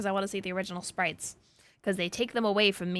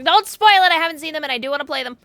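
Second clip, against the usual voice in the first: pleading shout; 7 semitones higher, 14 dB louder, faster than usual. Real, not acted. Begging chat not to spoil.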